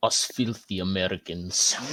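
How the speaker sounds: poorly done, shoddy put-on Russian accent. Joking with the group, putting on a bad Russian accent. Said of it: "that was a shit Russian impression".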